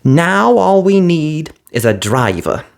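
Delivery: high brisk fairy voice; quick and businesslike; fiery fairy. A narrator's reading. Fiery fairy asking Cinderella for mice, brisk.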